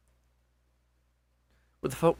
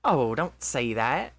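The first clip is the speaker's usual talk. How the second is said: attempted Scottish accent; 3 dB louder, much slower than usual. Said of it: "forgot how to do the Scottish accent".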